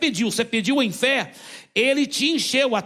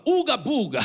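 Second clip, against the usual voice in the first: mock gibberish; 3 semitones higher than usual. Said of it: "ele só inventa qualquer sílaba".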